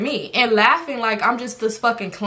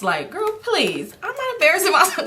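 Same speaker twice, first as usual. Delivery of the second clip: sassy dismissal; 8 semitones higher than usual. Retold or imitated. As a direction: brush it off with attitude.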